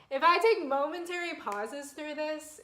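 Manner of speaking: whispered, fighting back tears; breathy hush, trying not to cry; holding back tears. Real, not acted. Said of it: "I'm trying not to cry".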